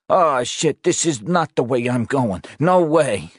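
trapped cop panicking at the fire; panic. Acted. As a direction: let the fear break loose. Panic rising.

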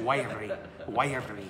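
"Wiry" in a light mock Scottish accent. Shown as a demonstration. Priest playfully says "Wiry" in a mild Scottish accent. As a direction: roll the r in "Wiry" like a Scot. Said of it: "you have to say it with a Scottish accent".

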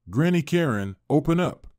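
calling out toward the house; shouting. Acted. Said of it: "Kevin shouted".

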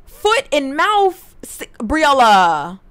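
loud, drawn-out reproach; exasperated scolding. Real, not acted. Player telling off Briella for annoying her brother, scolding. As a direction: drag out her name in disbelief.

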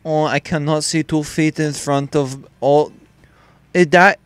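hammed-up mock Asian English; mock Asian accent. Gamer joking that he can't see, mock Asian accent. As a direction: put on a crude Asian accent. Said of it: "I think I'm Asian".

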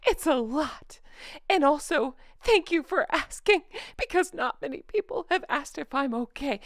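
lightly voiced whiny Meghan; Meghan impression. Vlogger mocks Meghan's complaint in a lightly put-on voice. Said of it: "This is supposed to be Meghan".

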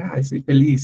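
a hammed-up sing-song of being always happy; playing the person who is always cheerful; mock always-happy. Teacher mocking a student who is always happy, sing-song. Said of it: "estar siempre contento".

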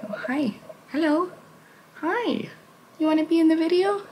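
high cooing voice for the cat; sweet high-pitched talk to a cat. Real, not acted. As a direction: coo up high at your pet. Greeting her pet in baby talk.

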